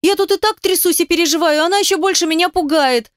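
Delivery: scared and annoyed, snap back at her friend; indignant outburst. Acted. Scared girl snaps at friend.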